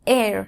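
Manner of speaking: the sound এর said clearly as a model; model vowel sound. Shown as a demonstration. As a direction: demonstrate the sound এর on its own. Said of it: "এর মতন হবে".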